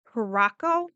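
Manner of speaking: Curacao said as "kuh-ROCK-oh"; alternative pronunciation. Shown as a demonstration. Naming the island to viewers, Curacao pronounced "kuh-ROCK-oh". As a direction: stress the middle of Curacao, hard k, "ROCK-oh". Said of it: "I looked somewhere on how to pronounce it".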